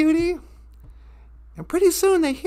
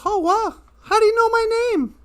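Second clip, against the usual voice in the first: higher, quick, astonished question; amazed; 6 semitones higher, faster than usual. Acted. Teddy bear to the guitar player, amazed. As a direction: pitch it up in amazement.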